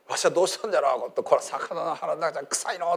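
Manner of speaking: lightly voiced old man, muttering; a hint of a dazed old prophet; creaky wise old man. Jonah voiced inside the fish.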